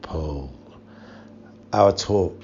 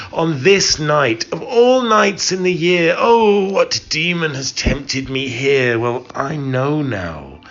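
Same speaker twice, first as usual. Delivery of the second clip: much higher and louder, rushed cry of dread; anguished cry; 9 semitones higher, 6 dB louder than usual. A narrator's reading. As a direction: cry it out as the memory hits. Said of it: "and I cried".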